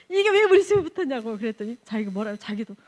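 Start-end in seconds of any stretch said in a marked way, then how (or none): 0.1-1.4 loud, raised-pitch re-enacted challenge; indignant retold demand. Missionary retelling her challenge to the owner, indignant demand. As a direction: demand an explanation, high and forceful. Retold confrontation over the wiring.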